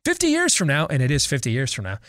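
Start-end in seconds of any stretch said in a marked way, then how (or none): 0.0-0.8 put-on English accent. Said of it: "in his English accent".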